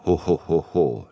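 a big jolly laugh; loud good-natured ho-ho laugh; booming laugh. A narrator's reading. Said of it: "lachte Brodsky".

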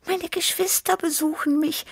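put-on high, light happy young cat; a cheerful little tomcat sharing good news; happy Tibi Tiger. A narrator's reading. Young cat telling his friends happily about family, high voice. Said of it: "miaute Tibi Tiger froh".

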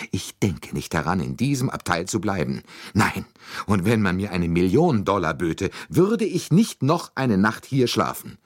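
high-pitched, emphatic lady, rising as she goes; indignant Mrs. Hubbard. Acted. Lady refuses to stay in her compartment, indignant and high.

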